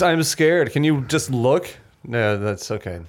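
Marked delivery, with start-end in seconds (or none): 0.0-1.7 higher, hammed-up frightened plea; mock scared pleading. Host quoting a frightened character's plea, mock scared. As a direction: plead as if playing someone scared.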